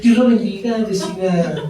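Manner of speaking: two-faced pleasant hello; fake sweet greeting.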